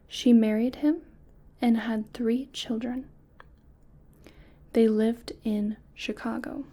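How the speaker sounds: measured read-aloud with clear pauses between phrases; deliberate, evenly phrased story reading; test story narration. Acted. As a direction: read a short story carefully to a listener being tested.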